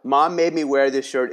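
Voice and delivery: brightly presented as a memoir title; upbeat reframe. Shown as a demonstration. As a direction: sell the kid's complaint back as a story. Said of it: "is a six-word story right there".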